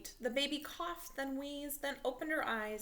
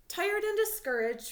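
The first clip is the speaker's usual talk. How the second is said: expressive storytelling; 11 semitones higher, 9 dB louder than usual. A narrator's reading. Narration of Frank's low mood.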